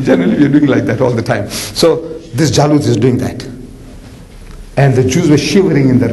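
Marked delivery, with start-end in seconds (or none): 0.0-0.0 giant's taunting shout. Retold or imitated. Giant taunts the Jews from the hill, bellowing. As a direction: boom it out like a swaggering giant. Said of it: "he says".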